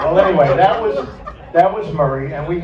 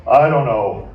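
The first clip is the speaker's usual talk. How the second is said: laughing while telling; slower than usual. Retold or imitated. The speaker recounts robbery, laughing.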